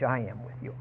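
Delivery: hushed, tender I am with you; quiet reassurance; soft promise. Shown as a demonstration. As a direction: say it gently, almost to yourself. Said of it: "repeats the promise softly, then loudly".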